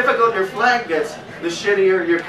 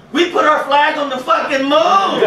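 mock triumphant shout; 8 semitones higher, 4 dB louder than usual. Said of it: "I'm like".

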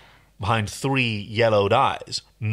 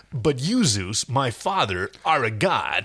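Schwarzenegger impression. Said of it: "Arnold Schwarzenegger in Hercules in New York".

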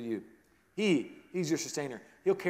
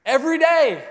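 1 emphatic; 10 semitones higher, 11 dB louder than usual. Acted. Emphatic preaching.

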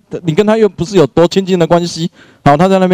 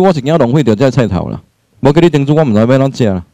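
lightly voiced mother-in-law grumbling in Taiwanese; mock nagging at the daughter-in-law; mother-in-law scolding her son's wife, mildly nagging; 5 semitones lower than usual. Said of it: "婆婆在那跟你碎碎念".

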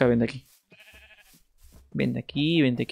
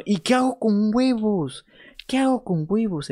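mock panic; 8 semitones higher than usual. Streamer at a loss with the eggs, mock-panicked high whine. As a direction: throw it up high like a silly crisis.

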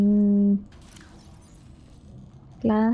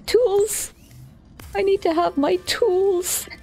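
higher, bright proclaiming of the same menu line; hammed-up announcement; 10 semitones higher, slower than usual. Rereading the tools menu as a playful higher proclamation. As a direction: announce it like a grand discovery, pitched up.

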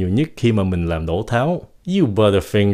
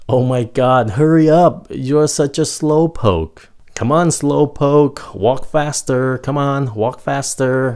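raised, high-pitched mock exasperation; impatient nagging; 5 semitones higher, 3 dB louder, slower than usual. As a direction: hurry along a dawdler, drawing out the words. Acted nagging at a slow walker.

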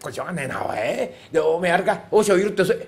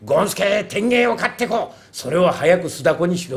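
a touch of a raised voice; mild mock shout; 3 dB louder than usual. Servant imitating the priest shouting to him, mild mock shout. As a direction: retell the priest calling out, mildly mock loud. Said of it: "えけえ声を張り上げて".

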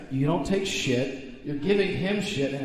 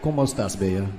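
put-on clumsy Spanish accent, flirty; bad Spanish accent; 8 semitones lower, faster than usual. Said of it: "the worst Spanish accent I've ever heard".

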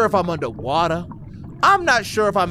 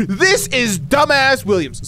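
slow, high, exaggerated announcement; mocking letter reading; 6 semitones higher, 4 dB louder, slower than usual. Player reading Ted's hated letter, mocking announcement. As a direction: announce the writer with slow mockery.

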